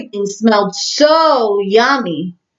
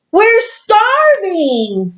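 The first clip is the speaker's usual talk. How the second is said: slow starving moan; 10 semitones higher, much slower than usual. Acted. Hungry friends complain.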